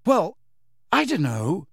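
a touch of anger on a hesitant reply; rather angry. A narrator's reading. Harry answers Dumbledore's question, rather angrily. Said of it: "said Harry rather angrily".

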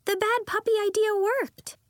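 high and loud with glee; a girl celebrating an idea that worked; excited. A narrator's reading. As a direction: keep the happy burst going. Nori still exclaiming.

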